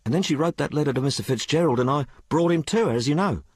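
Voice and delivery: put-on high-pitched, colloquial working girl; working-class maid Sal. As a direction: tell it as an uneducated maid confiding in her mistress. Story figure Sal.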